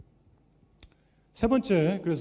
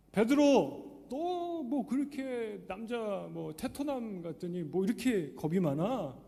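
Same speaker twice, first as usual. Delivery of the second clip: mock teasing Jesus; 4 semitones higher, slower than usual. Preacher shows the wrong Jesus teasing Peter, mocking. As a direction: needle Peter like a mocking friend. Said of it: "이게 아니고요".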